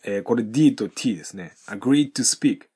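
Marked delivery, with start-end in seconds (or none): 1.7-2.7 "agreed to speak" with the D of agreed swallowed by to; slow model linking agreed into "to"; silent D. Shown as a demonstration. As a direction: drop the D in "agreed to". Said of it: "agreedのDの音が聞こえません".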